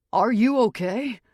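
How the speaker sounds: high, loud frantic worry; near hysterical. A narrator's reading. Jarrett on the phone, frantic about her, near hysterical. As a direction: blurt it out close to panic. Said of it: "Now it's near hysterical".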